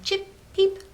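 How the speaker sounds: high cried chirp; bird cry. Acted. Reader voices birds.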